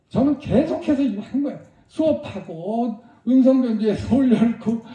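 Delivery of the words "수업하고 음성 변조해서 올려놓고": laughing mid-sentence. Real, not acted. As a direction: laugh through the words. Laughing while retelling.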